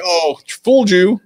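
high, loud, drawn-out gotcha; gleeful gotcha. Acted. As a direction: crow it teasingly, stretching the words out. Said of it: "You're like".

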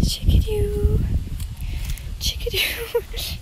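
high singsong pet call. Real, not acted. Calling the pet in a high coo.

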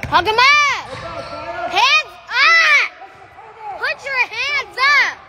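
yelling from the sidelines. Real, not acted.

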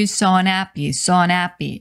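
"so unhappy" run together as "so-nappy"; linked pronunciation. Shown as a demonstration. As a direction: link "so unhappy" into one unit, swallowing the "un". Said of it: "이렇게 들립니다".

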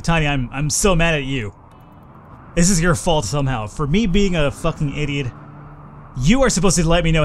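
mad at Tiny. Real, not acted. Gamer scolding Tiny for not warning him, loud exasperation. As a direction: blame the viewer, genuinely mad. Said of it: "I'm so mad right now".

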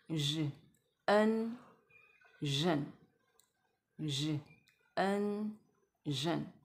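"日", then "n", then blended "忍"; separated phonics demo, "日", "n", "忍"; sound blending. Shown as a demonstration. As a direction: blend "日" and "n" into "忍", piece by piece. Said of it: "一样，懒人音呃".

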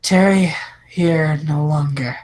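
evil woman voice. Acted. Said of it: "let me just randomly come up with a voice".

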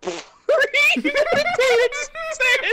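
high, slow cackling laugh into the words; hammed-up sinister laugh; mock evil laugh. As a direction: cackle it out slowly like a villain. Acted accusation, villain laugh.

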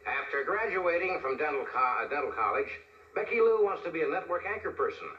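pageant narrator voice. Retold or imitated. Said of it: "The guy will say".

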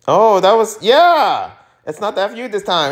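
신나서 훨씬 높게 외치는 목소리; excited. Acted. Excited character reply.

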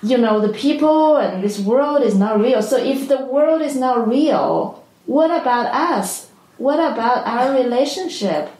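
lightly voiced puzzled mom; baffled mother. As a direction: imitate a mother demanding an explanation. Retelling mother's baffled questions to daughter.

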